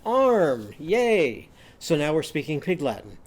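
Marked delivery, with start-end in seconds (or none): 0.0-1.5 loud high cheer for a vowel word. Shown as a demonstration. Teacher showing kids how to cheer, loud excited cheer. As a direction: cheer it out like a class celebrating. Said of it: "we can cheer for that".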